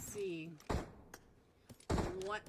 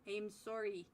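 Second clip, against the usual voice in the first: soft Canadian "sorry" with a rounded "sore" vowel; Canadian accent; 2 semitones lower, 5 dB quieter than usual. Shown as a demonstration. Caster apologizing to viewer Henry, mock Canadian accent. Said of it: "That sound Canadian enough?".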